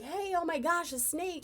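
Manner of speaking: high, loud retold panic; panicked. Teen pleading with the adult about the snake, panicked high squeal. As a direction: squeal it out like you just spotted it. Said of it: "I turn to the adult in the room and I'm like".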